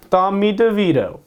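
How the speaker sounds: a half-hearted Italian-American accent on the name; terrible mock Italian-American accent. Shown as a demonstration. Picking a quarterback, tries a bad Italian-American accent. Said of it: "That was a terrible accent".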